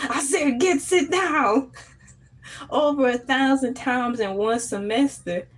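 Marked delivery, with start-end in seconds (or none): 0.1-1.7 Southern teacher impression. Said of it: "he said".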